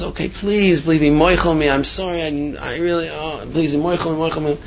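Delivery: retold plaintive apology; mock tearful pleading. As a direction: plead for forgiveness, only acting the tears. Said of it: "starts crying and says".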